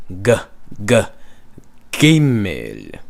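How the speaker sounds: G g gimel on a hard hit g. Shown as a demonstration. Teacher sounding out the plosive g in gimel. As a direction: punch the g sound twice then the name. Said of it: "to say that it is plosive".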